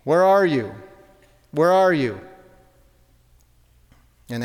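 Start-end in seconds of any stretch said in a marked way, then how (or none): 0.0-2.2 God calling out louder into the garden, searching. Retold or imitated. God calling for Adam and Eve in the garden, a bit louder. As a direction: call out to someone hidden, but only a little louder. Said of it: "calls out".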